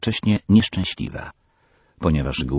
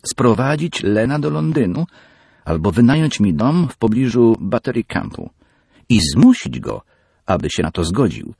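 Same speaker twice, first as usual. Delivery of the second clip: much higher, louder eager demand; insistent daughter; 7 semitones higher, 5 dB louder than usual. Acted. Peggy demands her father bring Len to London. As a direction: list what you want, pushing harder.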